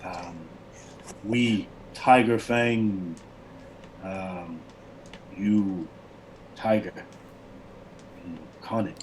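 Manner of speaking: lightly voiced barbarian, halting and slow in places; broken common. Barbarian leader thanking the cat man, halting broken speech. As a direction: search for each word in a foreign tongue. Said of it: "talks in a broken common".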